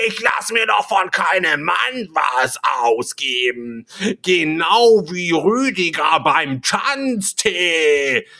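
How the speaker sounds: high, slow, drawn-out mock rant; imitated screaming. Woman refusing a man's offer to pay, imitated screaming. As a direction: mimic her indignant yelling, dragging out each phrase. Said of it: "schrie die mich an".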